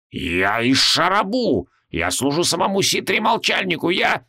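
slow, proud demon voice; boastful demon. A narrator's reading. Bound demon threatens his captors with boastful menace. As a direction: puff up like an ancient fiend.

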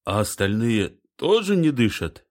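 squeaky cracked frightened question; voice cracking. Acted. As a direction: voice breaks up high in fear. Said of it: "Голос Штиллера дал петуха".

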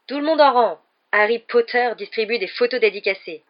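loud, high mocking announcement; calling to all. A narrator's reading. Rival announcing to the courtyard, loud and mocking. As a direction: proclaim it to the whole crowd. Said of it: "lança Malfoy à la cantonade".

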